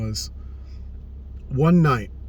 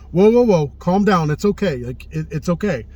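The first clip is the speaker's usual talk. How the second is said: higher-pitched mock soothing, whoa whoa; calming reassurance; 3 semitones higher, 3 dB louder than usual. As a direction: imitate someone gently calming a panicked friend. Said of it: "He's got this, like".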